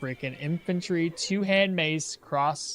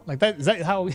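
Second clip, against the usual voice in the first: mock Cockney, tossed off for chat; Cockney accent. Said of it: "a Cockney accent?".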